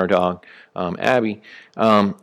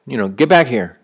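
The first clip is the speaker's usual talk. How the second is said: louder, higher call to the dog; 3 semitones higher, 5 dB louder than usual. Retold or imitated. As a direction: call Abby back across the yard. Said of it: "I'll call her back".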